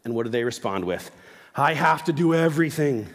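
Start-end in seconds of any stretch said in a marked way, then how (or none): 1.5-3.1 put-on louder, laughing teen complaint; hammed-up eye-roll whine from a teenager; a parent voicing a teenager's laughing gripe about chores; whiny teenager. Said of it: "to your teenager".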